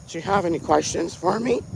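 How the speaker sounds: wobbly imitation of an old man; ancient anesthesiologist. Old doctor asking his patient for questions, elderly voice. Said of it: "Why is he talking like that?".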